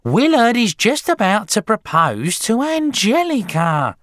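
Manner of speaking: high, loud wail of protest; screechy wife, desperate not to miss it; piercing soap-fan outcry; crying out. A narrator's reading. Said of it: "Missus Wormwood cried out".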